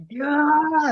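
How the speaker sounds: high, loud howl of despair; anguished yell. Retold or imitated. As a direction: howl it out like he's given up.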